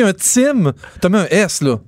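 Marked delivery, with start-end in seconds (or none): 0.0-0.7 higher, drawn-out mock "Tim" with a ts-like T; mocking mispronunciation. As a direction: stretch "Tim" slowly, quoting the slip. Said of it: "T'as dit, toi, toi qui ris de Richard". (imitation moqueuse, « Tim » étiré en « tsim »)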